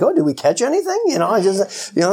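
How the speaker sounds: high, sing-song feigned surprise; mock innocent. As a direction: play dumb, all innocence. Jesus playfully feigning innocence.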